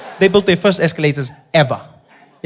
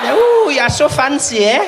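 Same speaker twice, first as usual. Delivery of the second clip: impressed woman voice; 8 semitones higher, 4 dB louder than usual. Retold or imitated. Woman impressed by pickup line.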